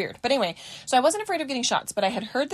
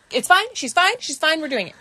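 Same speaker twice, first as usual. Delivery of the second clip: mom insisting; 4 semitones higher than usual. Retold or imitated. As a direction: brush off the fuss, firm and quick. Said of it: "my mom's like".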